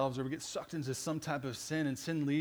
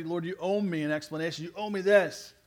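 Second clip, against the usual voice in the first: mildly indignant, building louder; indignant demand; 3 semitones higher, 6 dB louder than usual. Acted. Believer claiming an explanation from the Lord, indignant demand. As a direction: press the demand harder on the second sentence. Voicing an entitled demand to God.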